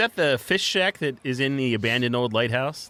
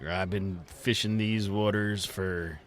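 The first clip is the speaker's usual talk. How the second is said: put-on gruff old sea dog voice; pirate voice; 5 dB quieter than usual. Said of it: "Why am I talking like a pirate?".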